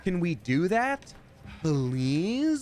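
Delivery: high, squeaky pretend bird voice; pleading birds. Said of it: "I bet they're like".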